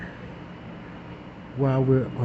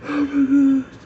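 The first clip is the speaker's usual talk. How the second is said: laughing through the words; 10 semitones higher than usual. Real, not acted. Storyteller cracking up at the memory. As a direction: crack up while you say it.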